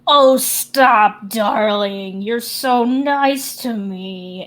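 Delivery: lightly voiced doting grandma, drawn out; flattered grandma. Grandma answers Ash's compliment, a touch flattered and drawn out. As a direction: open loudly, then slow into a mild coo.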